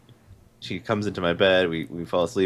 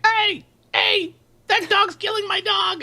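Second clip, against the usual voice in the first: angry dog owner; 5 dB louder than usual. Retold or imitated. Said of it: "they're like".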